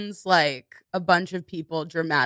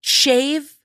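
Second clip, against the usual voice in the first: mock fervent student; slower than usual. Student swears extreme devotion.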